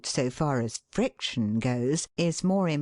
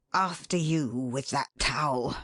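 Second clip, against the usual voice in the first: bitter politeness; 2 semitones lower than usual. Acted. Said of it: "in accents of bitter, grinding politeness".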